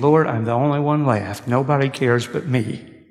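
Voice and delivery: a touch of a weary, pleading lament; mildly complaining to God, worn out; understated despair, asking to die; despairing prophet. Retold or imitated. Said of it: "now he's saying".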